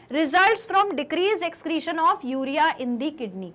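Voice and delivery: slow, even dictation of a definition; slow note dictation. Shown as a demonstration. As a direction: read the definition for copying. (परिभाषा धीरे-धीरे लिखवाना)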